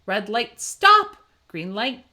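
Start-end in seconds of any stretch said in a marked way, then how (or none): 0.6-1.2 high loud stop; shouted stop; called-out stop. A narrator's reading. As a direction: call it like a traffic signal. Traffic light chant.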